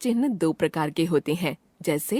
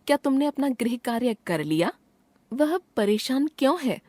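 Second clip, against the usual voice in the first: raised pitch, clear textbook questions; questioning tone; 4 semitones higher than usual. Shown as a demonstration. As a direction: ask each as a question. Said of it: "प्रश्नसूचक वाक्यों के अंत में". (सवालिया लहजा)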